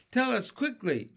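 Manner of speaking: high, pressing demand; urgent cry. A narrator's reading. Earthworm demanding James's plan, high urgent cry. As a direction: cry out for a fast answer. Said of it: "cried the earthworm".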